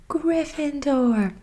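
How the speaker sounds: half-whispered mock shout of the house name; hat shouting. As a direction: announce the house slowly to the hall. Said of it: "Harry heard the hat shout the last word".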